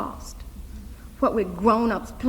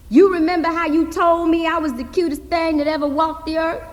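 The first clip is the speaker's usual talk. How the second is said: lightly voiced girl, higher; young Hazel pressing; 7 semitones higher, 5 dB louder than usual. Hazel reminding her uncle of a promise, lightly voiced girl. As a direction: press him like a determined little girl.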